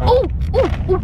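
high, delighted oohs; excited ooh. Real, not acted. Kid showing new Doritos, excited. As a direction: coo over the snack.

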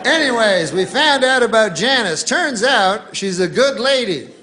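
hammed-up on-scene TV reporter; mock field reporter. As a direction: play the eager guy on location. Reporter continues Janice story.

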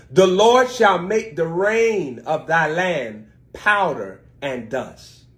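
slow, deliberate scripture reading. Shown as a demonstration. Pastor reads the verse slowly to the congregation, slow and deliberate. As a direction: read it slowly, each word weighed. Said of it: "let's read this slowly".

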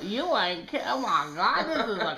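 high-pitched laughing outrage; mock-horrified, breaking into laughs; scandalized laughter. Laughing shock at disgusting footage.

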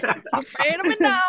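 imitating a tearful hug; imitating Alan's line. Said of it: "I've been saying it over and over".

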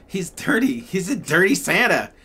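put-on high, loud kid calling out; loud child's voice. Little girl calling out at the stranger, high and loud. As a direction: announce it to the whole store. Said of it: "she's saying it really loud".

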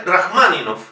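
Rachmaninov as "raj-MA-ninof"; stress on MA. Shown as a demonstration. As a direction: punch MA in Rachmaninov, keeping the final O. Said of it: "siendo una palabra esdrújula".

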